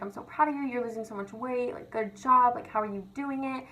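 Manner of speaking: high-pitched, admiring quote; imitated gushing praise. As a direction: imitate people cheering someone on. Imitates people praising her weight loss.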